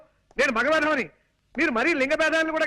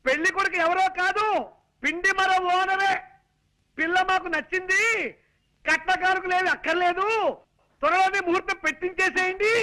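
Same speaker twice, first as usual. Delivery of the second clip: higher, breathless, animated announcement; worked-up telling; 4 semitones higher than usual. Acted. Son-in-law excitedly tells the mother-in-law about the match. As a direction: sell the good news with all you've got. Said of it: "కాళ్ళు చేతులు ఊపుతూ హైరాణ పడాలా".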